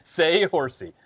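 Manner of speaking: high "Say horsey" for Saoirse; Atlanta-style mispronunciation. Shown as a demonstration. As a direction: draw out "Say horsey" as a botched name. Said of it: "now I'm gonna pronounce it, uh, from Atlanta".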